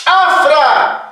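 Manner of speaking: "afra" drawn out with the F clear in the middle; pronunciation demo. Shown as a demonstration. Teacher shows the class the middle F, slow pronunciation demo. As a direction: sound out "afra" slowly, F mid-word. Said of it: "cuando yo digo".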